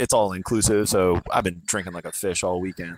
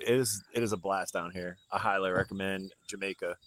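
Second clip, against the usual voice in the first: quiet voice; 6 dB quieter than usual. Real, not acted. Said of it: "A little bit".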